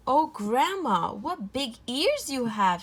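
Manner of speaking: put-on drawn-out childlike wonder; a little girl marvelling at grandma's ears.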